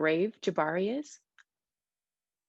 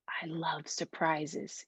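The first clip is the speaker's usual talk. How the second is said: slow and much softer, almost whispered; 4 semitones lower, 8 dB quieter, much slower than usual. A narrator's reading. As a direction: say it slowly under your breath. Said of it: "he whispered".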